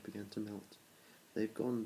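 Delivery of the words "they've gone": croaking frog. Acted. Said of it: "Bertram croaked".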